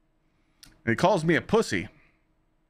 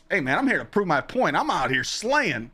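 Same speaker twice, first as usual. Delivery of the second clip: cocky quote; 7 semitones higher than usual. Retold or imitated. His own cocky quote to James.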